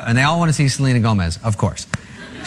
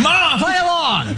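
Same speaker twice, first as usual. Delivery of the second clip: high, laughing urgent plea; hissing at mom through laughter to play along. Retold or imitated. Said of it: "And I go".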